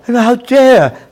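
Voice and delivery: slow, high, loud shout leaning hard on "dare"; outraged shout. Real, not acted. Commentator explodes at Western hypocrisy, drawn-out outraged shout. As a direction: draw out "dare" in fury.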